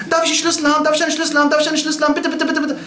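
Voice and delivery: put-on high, insistent childlike begging; Bahlul. The madman begs the caliph for his keys, childishly pleading. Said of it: "Bahlul, der ist so".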